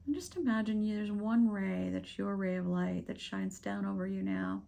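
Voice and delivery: unhurried meditation guide with long pauses; guided meditation. Acted. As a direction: gently lead them through breathing, leaving space between phrases.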